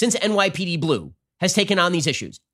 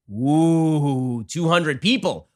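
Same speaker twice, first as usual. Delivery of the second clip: mock awe; much slower than usual. Mock awe at small number.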